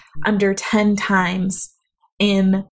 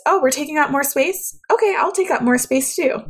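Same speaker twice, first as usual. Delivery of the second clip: higher, surprised inner voice; light, higher voice, delighted to discover; voice personified; 6 semitones higher than usual. Retold or imitated. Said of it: "It was like my voice realized".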